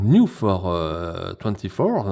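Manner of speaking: English words read with an English accent. Real, not acted. Collector reading the American blister label aloud, in an English accent. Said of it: "excusez-moi pour l'accent anglais".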